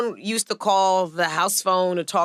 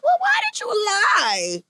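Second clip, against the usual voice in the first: mock scolding dad; slower than usual.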